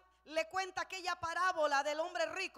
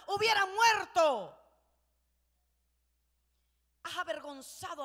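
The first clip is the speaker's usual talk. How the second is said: a touch of a scolding general, rising louder; 4 dB louder than usual. Retold or imitated. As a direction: rebuke the king, building in force. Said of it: "el general Joab regaña al rey". (regaño firme del general al rey)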